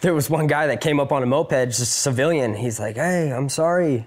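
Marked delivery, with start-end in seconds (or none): 3.0-4.1 halting broken English, words pieced together. Retelling what a civilian on a moped said: imitating broken English. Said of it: "kind of broken English".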